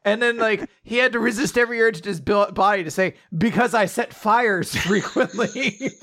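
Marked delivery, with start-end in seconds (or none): 3.4-5.9 slow confession through laughter; drawn-out, giggly mock confession; laughing blurt. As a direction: act a blurted confession, barely holding back laughs. Acts arsonist blurting, laughing.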